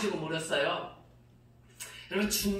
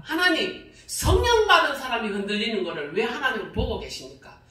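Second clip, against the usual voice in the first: demanding God; 4 dB louder than usual. Retold or imitated. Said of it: "그래서 제가 따졌거든요".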